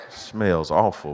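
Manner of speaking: usual speaking voice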